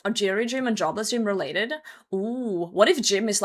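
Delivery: ordinary talk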